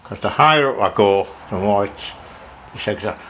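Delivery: talking around a pen cap; words muffled by pen in mouth; pen in teeth. Real, not acted. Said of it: "I'm talking funny 'cause I've got the top of the pen in my mouth".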